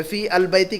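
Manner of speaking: "फी अल बैती" with al sounded; "फी अल बैती" as three words, showing the error; unwanted article. Shown as a demonstration. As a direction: say "फी अल बैती" as fii al bayti. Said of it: "अलिफ लाम नहीं आएगा".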